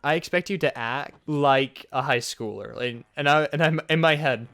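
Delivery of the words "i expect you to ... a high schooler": slow, measured mock scolding; mocking teacher voice. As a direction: lightly imitate a strict teacher spacing out the words. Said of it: "I'm doing this voice to mock her".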